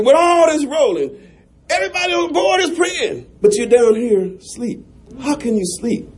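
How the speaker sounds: scolding captain, preacher's fervour; a hint of a scolding captain. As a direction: press him like a stern captain. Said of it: "asked him".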